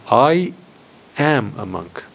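AM set apart after a pause; "am" given deliberate emphasis after a beat; stress on AM. Shown as a demonstration. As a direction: hold back briefly, then land on "am". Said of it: "with emphasis on the word am".

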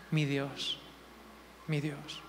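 low, very soft exclamation; hushed aside. Real, not acted. Preacher sighing to God after his point, hushed. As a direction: let it out under your breath.

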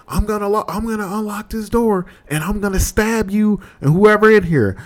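high-pitched mock menace; threatening woman. Woman threatening the roommates through the door, high mock menace. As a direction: imitate her threat in a high female voice.

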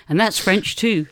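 puffing between remarks; breathless from the stairs; out of breath. Real, not acted. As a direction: get the words out while winded. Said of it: "Now you're out of breath".

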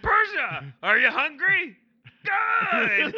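high, loud squeaky voice; future Andy voice. Acted. Future Andy asking his cat Persia in a squeal. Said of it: "talk like this at all times".

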